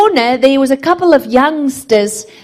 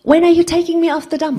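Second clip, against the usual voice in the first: pleading cry; 7 semitones higher, faster than usual. Shown as a demonstration. Preacher repeats the prayer louder.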